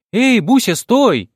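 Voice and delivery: put-on high, loud child's shout; yelling girl. A narrator's reading. First-grader yelling to stop her granny, loud and high. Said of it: "заорала первоклассница".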